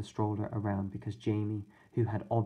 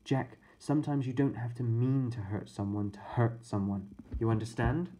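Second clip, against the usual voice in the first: a hint of a remorseful babysitter; sorry and earnest, explaining to the boys; lightly voiced babysitter. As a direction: babysitter admitting they behaved badly. Babysitter lesson.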